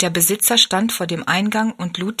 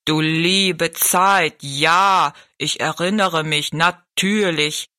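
slow giant voice; much slower than usual. Acted. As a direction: let each word take its time.

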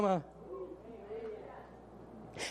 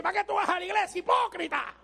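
mocking devil's sneer; devil's taunt; 3 semitones higher than usual. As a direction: jeer at the churchgoer like the devil. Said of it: "el diablo te dice". (burla del diablo)

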